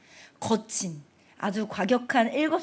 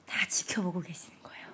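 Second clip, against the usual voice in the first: soft whispered reveal; hushed whisper; 5 semitones lower, 8 dB quieter than usual. Acted. Preacher telling children God is watching, whispered. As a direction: let it land in a hush.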